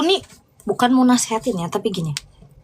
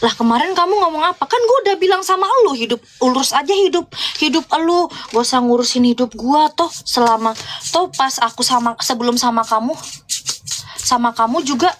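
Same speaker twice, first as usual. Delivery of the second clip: imitating him angry. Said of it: "dia bilang gini".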